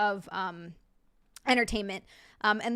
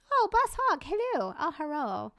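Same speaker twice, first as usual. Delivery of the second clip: lightly put-on Asian accent, high-pitched; mock Asian accent; 6 semitones higher than usual. Streamer greeting a viewer, slipping into mock Asian accent. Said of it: "I don't know why I get Asian".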